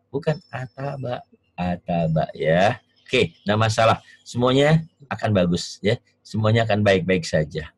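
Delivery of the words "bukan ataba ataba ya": "ataba" said carefully with a crisp b, softer, slowly; corrected pronunciation demo. Shown as a demonstration. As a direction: model the clean "ataba", not the Javanese "atapa". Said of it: "Jadi bukan ataba".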